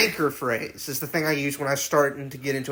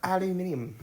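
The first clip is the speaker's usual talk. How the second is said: softer English pronunciation of aluminium; English accent; 2 semitones higher, 6 dB quieter than usual. Shown as a demonstration. Obliging a friend's word challenge, English accent. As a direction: say it the British way, quietly. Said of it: "Say aluminum".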